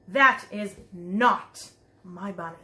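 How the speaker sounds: slow, firm insistence; Trixie's protest. Acted. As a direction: plant each word like a stubborn little girl. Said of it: "she said".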